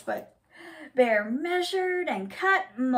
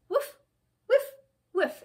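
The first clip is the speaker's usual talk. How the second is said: short, puffed sniffing noises; sniffing sounds; 7 semitones higher than usual. A narrator's reading. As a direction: act out a bear sniffing the air. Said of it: "he smells with his nose".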